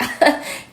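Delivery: brief breathy scoffing laugh; one quick, voiceless puff of laughter; short laugh. Retold or imitated. Acting out her reaction to the friends, short laugh.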